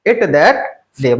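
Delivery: I am sorry, I couldn't make it that day said quick and blended; fast, fluent apology in English; fast, run together. Shown as a demonstration. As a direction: rattle it off at speed. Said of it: "मतलब बहुत speed में बोलना है".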